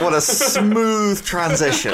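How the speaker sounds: slow, dry sarcastic drawl; deadpan mock praise. Sarcastic remark on segue.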